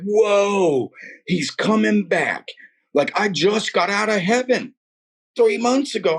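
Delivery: high, wide-eyed amazement; excited exclamation. Retold or imitated. Telling a distressed woman that he's coming back, excited. Acting out his excited witnessing.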